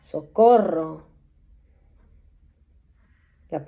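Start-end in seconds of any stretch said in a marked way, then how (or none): 0.0-1.1 slow, louder mock cries of socorro; imitating people crying for help, drawn out. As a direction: call out for help the way the crowd does. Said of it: "Gente gritando".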